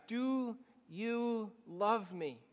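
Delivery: very slow, hushed Jesus question. Acted. Jesus asking Peter a third time, slow and tender. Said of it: "Hear him ask for the third time".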